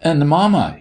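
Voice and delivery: put-on high little-boy reproach; lisped reproach. A narrator's reading. Sammy reminding the doctor about mamma, reproachful child. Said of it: "he lisped reproachfully".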